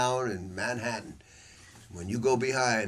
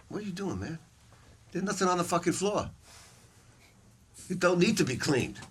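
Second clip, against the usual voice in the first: incredulous retelling; 8 semitones higher than usual. Retold or imitated. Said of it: "I said".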